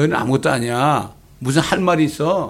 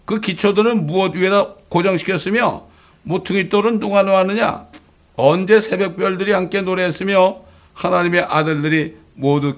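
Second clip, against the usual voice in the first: raised, stern questions, higher pitch; God questioning; 4 semitones higher than usual. Acted. God questions Job about creation, stern and raised.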